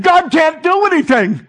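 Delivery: mock despair. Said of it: "pulling my hair out".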